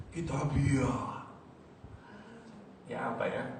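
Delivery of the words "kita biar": joy. Shown as a demonstration.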